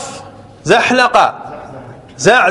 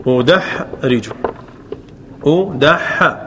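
slowed teaching demo; 6 semitones lower, much slower than usual. Shown as a demonstration. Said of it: "انظر".

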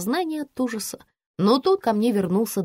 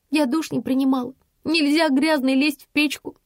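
babbling; 6 semitones higher than usual. A narrator's reading. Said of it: "пролепетала я".

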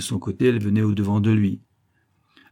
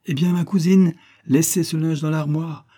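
cheerful insistence; 8 semitones higher, 4 dB louder than usual. A narrator's reading. Colonel cheerfully stops cousin's fuss.

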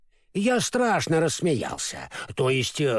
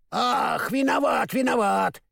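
high, flustered apology; lightly voiced scarecrow apologizing; apologetic scarecrow; 6 semitones higher, slower than usual. A narrator's reading. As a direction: hurry the sorry out. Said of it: "извинился Страшила".

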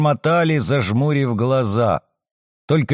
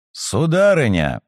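loud call. Acted. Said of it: "Мой голос звучал громче её завываний".

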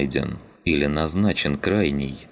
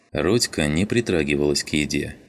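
ordinary delivery

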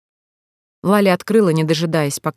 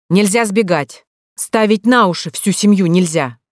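loud, raised, lecturing voice; deliberately loud; 3 semitones higher, 4 dB louder than usual. Acted. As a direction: say it loud so she hears through the door. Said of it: "Он говорил нарочито громко". (нарочито громко, на публику)

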